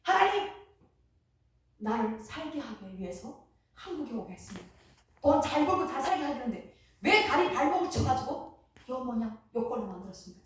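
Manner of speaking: loud, finger-pointing demand aimed at God; a reenacted proud rant at heaven, loud; arrogant accusing prayer. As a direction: scold God as if he owed you. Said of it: "요렇게 삿대질 하면서".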